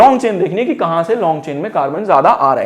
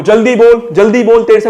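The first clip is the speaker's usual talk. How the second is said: urgent prompt; 3 semitones higher, 5 dB louder than usual. Real, not acted. Teacher pressing student to answer.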